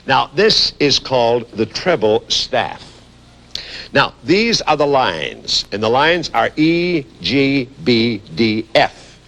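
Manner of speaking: slow, careful explaining; slow teacher voice. Shown as a demonstration. Teaching children the lines of the staff, slow. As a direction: spell it out for the kids. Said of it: "explain something to all the Peanuts".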